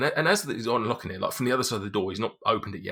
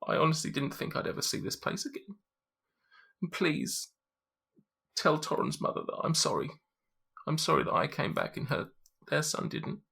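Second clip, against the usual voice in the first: put-on high, soft child's voice thanking her rescuers; a quiet, high child saying thank you; little girl's voice; 9 semitones higher, 4 dB quieter than usual. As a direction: speak as a small grateful girl, high and soft. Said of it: "and says to you".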